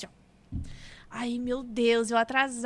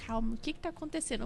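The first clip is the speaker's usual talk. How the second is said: mãe acalmando; 8 dB quieter, faster than usual. Retold or imitated. Retold mother calming crying child.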